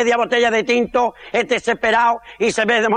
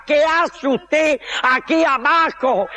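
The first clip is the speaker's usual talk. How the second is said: higher, slow comic challenge; hammed-up usher's rebuke; indignant usher; 4 semitones higher, slower than usual. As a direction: challenge the intruder, stretching the words. Usher challenges man in wrong seat.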